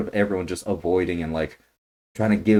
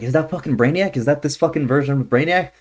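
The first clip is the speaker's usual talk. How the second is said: higher, eager questioning; retold excited disbelief; 6 semitones higher than usual. Retelling spotting Brainiac in the image, excited disbelief. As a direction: relive the moment of spotting him. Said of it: "and I was like".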